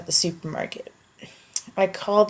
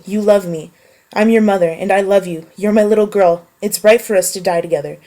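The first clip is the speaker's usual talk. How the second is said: louder, pleading, mother on the edge; a desperate mother begging her daughter, louder; 5 dB louder than usual. Acted. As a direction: plead as a frantic mother at the wheel. Mother's lines in the story.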